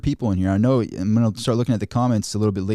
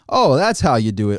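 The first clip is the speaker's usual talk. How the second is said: dry mock agreement; 5 dB louder than usual. Sarcastic reply to wage advice.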